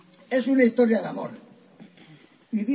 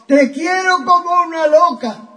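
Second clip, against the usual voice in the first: higher, lightly voiced lovesick lady; 7 semitones higher, 3 dB louder than usual. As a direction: gush like a smitten maiden. Pepa declares her love. (Pepa declara su amor, voz aguda)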